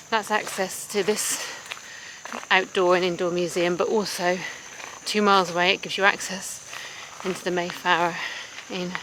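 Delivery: short of breath from walking uphill; puffing between phrases while climbing. Real, not acted. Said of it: "I don't know why I'm out of breath".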